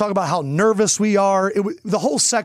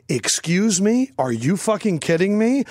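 mom's indignant challenge. Retold or imitated. Mom confronting a waitress, retold indignant challenge. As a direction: imitate mom picking a fight, drawing it out. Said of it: "and she goes".

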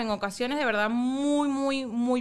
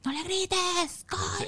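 drawn-out, higher-pitched mock protest; imitated reproach; 8 semitones higher, 3 dB quieter, much slower than usual. Mother imitating partner objecting to her yelling, drawn-out reproach. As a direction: stretch out the exasperated objection.

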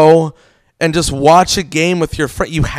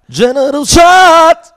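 high, loud, drawn-out party holler; rowdy shout; 12 semitones higher, 7 dB louder, much slower than usual. Pretend. Joking about everyone drinking a shot, rowdy holler. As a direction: call it out like a shot order. Calls out the joke drink name.

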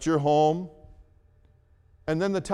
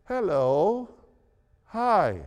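nice calm hello; 3 semitones higher, slower than usual. Retold or imitated. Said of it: "in a very nice, calm voice".

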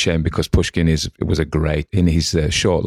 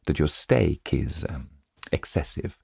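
measured, composed literary storytelling; unhurried audiobook reading; story narration. A narrator's reading. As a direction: read the tale aloud with deliberate pauses between phrases. Reads a short story aloud.

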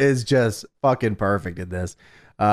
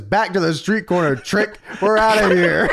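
rising mock taunting yell; retold yell; 5 semitones higher than usual. Host retelling wrestler yelling from car, mild mock yell. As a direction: call it out, higher as it goes. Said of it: "Christian yells out of the car".

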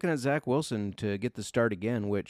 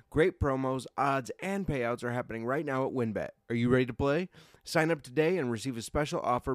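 upbeat sponsor read. Acted. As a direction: read it like a radio ad.

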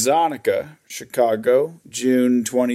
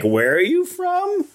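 questioning clerk. Retold or imitated. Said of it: "he wasn't like".

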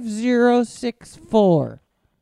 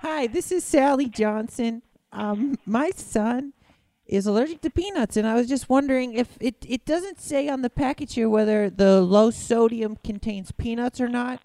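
lightly higher worried mom; 3 semitones higher than usual. Pretend. Mom asking Hormel about peanuts, lightly higher. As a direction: sound like a polite worried mother. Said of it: "Let me do the mom voice".

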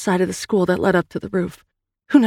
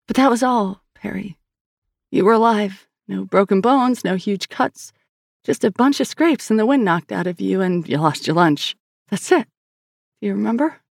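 higher, earnest sister voice; Sal's voice; 4 semitones higher than usual. Acted. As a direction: tell it gently, coaxing a memory. Narrator voices Sal.

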